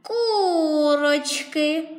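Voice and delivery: slow, drawn-out sigh on the word; a weary sigh of relief. Acted. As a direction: breathe it out on a long sigh. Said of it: "нарешті зітхнула лисиця".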